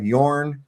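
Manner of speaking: "yorn" as one syllable, yawrn; dialect word. Retold or imitated. Speaker quoting old coworker's dialect, imitated. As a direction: quote "yorn" as the hillbilly word for yours. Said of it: "uses words like".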